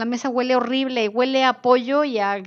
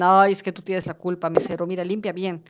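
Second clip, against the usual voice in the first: scolding; 3 semitones lower than usual. Retold or imitated. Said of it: "Y a ti te dicen".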